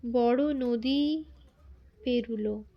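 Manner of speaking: slow, stretched বড় নদী, each syllable held long; drawn-out words. Retold or imitated. Mother telling Bibhuti her worry, words drawn out slowly. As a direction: pull out বড় নদী slowly as if the river were huge. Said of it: "টানিয়া টানিয়া উচ্চারণ করিতেন".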